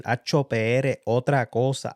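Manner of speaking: loud, high mock yell of the hoped-for line; imagined yell. Fan imagining Chente's halftime line, loud mock yell. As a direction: belt it out like the line you wished he'd yelled. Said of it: "Chente Drach was gonna yell".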